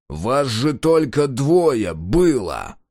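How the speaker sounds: slow, menacing questioning; stern chief's demand. Acted. Chief Pepelyuga demanding answers from the guard, slow and stern. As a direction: press the guard hard, slowly.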